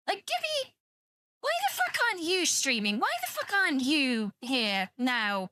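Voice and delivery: hammed-up fangirl squeal; mock fangirling. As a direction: gush at Gibby like a starstruck fan. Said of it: "and I'm there fangirling".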